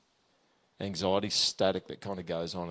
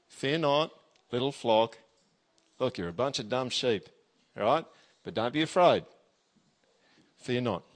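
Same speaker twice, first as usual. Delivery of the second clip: keen to help. Pretend. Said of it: "sounds like someone who's just really keen to help".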